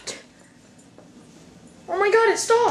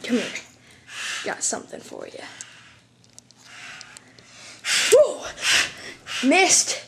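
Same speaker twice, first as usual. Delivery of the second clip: taunting; 3 semitones higher than usual. Acted. Taunting the killer with an axe.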